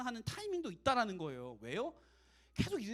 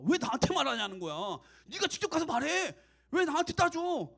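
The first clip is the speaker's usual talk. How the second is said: loud, high acted scolding; acted shout of exasperation, rising in pitch; exasperated God; 6 semitones higher, 9 dB louder than usual. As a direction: fire back as a fed-up God. Voices God exasperated at complainers.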